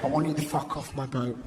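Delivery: a hint of a stern Noah; telling off the magpie. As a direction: scold the bird off the boat. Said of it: "Noah tried to tell off a magpie".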